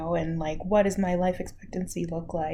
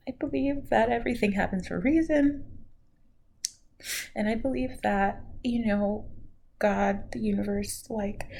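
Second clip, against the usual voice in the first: higher voice, still close to crying; tearful; 3 semitones higher than usual. Real, not acted. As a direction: push through the tears with conviction. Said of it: "sorry guys".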